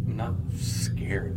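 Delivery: slow, breathless whisper; soft, slow whisper of denial. Acted. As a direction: insist you're fine while clearly not. Denying fear after being teased.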